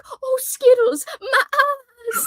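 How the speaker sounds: put-on high, laughing Southern accent; imitating a friend's Southern accent. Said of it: "like, a Southern accent with it".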